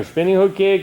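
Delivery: sharp high drill call; called command. Real, not acted. Instructor calling the kick count to Stephen, sharp high call. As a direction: bark the count to the student.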